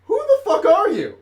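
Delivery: high, loud confrontational demand; demanding shout. Acted. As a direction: challenge the stranger at gunpoint, loudly. Player challenges stranger at gunpoint.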